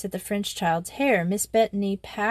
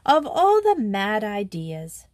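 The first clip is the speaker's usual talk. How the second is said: astonished. Acted. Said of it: "sat back and gasped".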